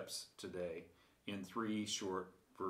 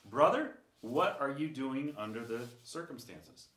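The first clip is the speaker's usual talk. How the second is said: retold challenge; 4 semitones higher, 4 dB louder than usual. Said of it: "Carmen looked at him and said".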